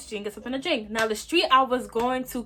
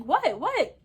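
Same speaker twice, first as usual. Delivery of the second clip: confused; 8 semitones higher, 4 dB louder than usual. Retold or imitated. Confused reply to shouts.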